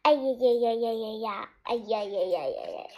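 rapid run of mock ow-ow cries, sinking low; read-aloud wail, quick and fading; pained yowling. A narrator's reading. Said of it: "我痛苦地大喊道".

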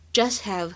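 "just have" with the T of "just" dropped; unreleased T. Shown as a demonstration. Teacher shows learners the incomplete plosive, "just have" without T release. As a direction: run "jus" straight into "have", no T. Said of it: "也有一个不完全失去爆破".

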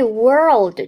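teacher's clear "world"; careful model pronunciation. Shown as a demonstration. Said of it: "注意".

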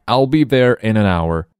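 put-on keen young heroine; eager little girl. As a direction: promise it brightly as a young girl. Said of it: "says Nellie".

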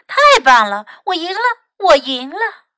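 victory cheer climbing in pitch; happy winner's call; excited cry. A narrator's reading. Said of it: "cried Fox".

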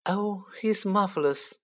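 high-pitched admiring coo; adoring. A narrator's reading. Mother beaming at the wizard's photograph, adoring. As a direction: gush lightly over an idol. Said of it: "Missus Weasley beamed down at him".

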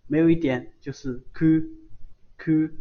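Q drawn out slowly; 缓慢示范Q; slow Q drill. Shown as a demonstration. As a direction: stretch Q for learners to copy.

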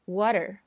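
water with a very short d-like t; water said with the t tapped quickly, almost a d; flapped t. Shown as a demonstration. Teacher shows the flapped t in water. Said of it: "t变成一个非常短".

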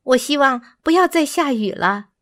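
a hint of a small bird character; worried bird. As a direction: pipe up with mild concern.

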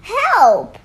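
loud, high falling cry; acted shout for help. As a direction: yell it out as startled story children. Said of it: "they all shouted".

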